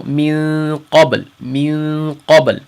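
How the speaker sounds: "min qabl" with the noon not fully hidden; half right min qabl. Shown as a demonstration. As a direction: say "min qabl" with the tongue near the top. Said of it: "So that's half right, half wrong".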